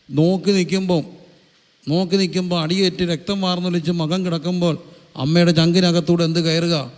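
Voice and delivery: preacher pressing the mothers' sorrow on his flock, impassioned; impassioned preaching. Acted. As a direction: preach it with rising fervour to the congregation. Preaching at full force.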